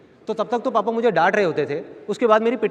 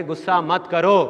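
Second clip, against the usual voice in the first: slow quoted phrase; slower than usual. Shown as a demonstration. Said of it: "तो क्या होता था?".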